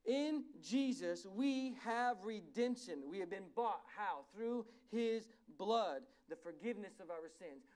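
very slow, loud scripture reading. Real, not acted. Preacher reads to the church about redemption, slow and forceful. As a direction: let each word land slowly and forcefully. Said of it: "read it slowly so I don't go too fast".

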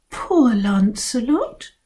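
slow, sympathetic sigh; pitying. Acted. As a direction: coo over him with pity. Girls pitying Lancelot.

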